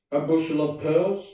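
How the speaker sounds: bored. A narrator's reading. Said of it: "in a bored voice".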